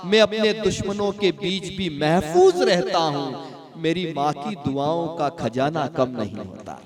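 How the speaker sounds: shayari recital, lines rising to a firm close; recited couplet. Acted. Host recites a mother couplet to the audience, recited.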